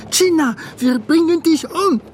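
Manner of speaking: high, loud imitation of a mob threat; imitating the crowd shouting together; mock mob yell. (laut nachgeahmter Schrei des Mobs)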